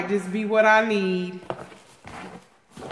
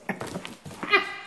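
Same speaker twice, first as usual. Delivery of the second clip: delighted chuckle; 6 dB quieter than usual. Real, not acted. Wants more of the gifts.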